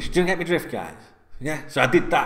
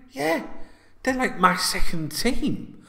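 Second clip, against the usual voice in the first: excited officer; 9 semitones higher, slower than usual. Retold or imitated. Officer eagerly claims Liverpool.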